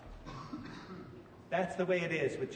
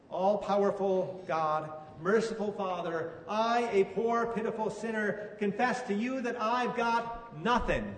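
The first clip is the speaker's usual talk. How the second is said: measured, penitent prayer, unhurried at the start; humble church confession, read with a little weight. Acted. Prays a confession aloud.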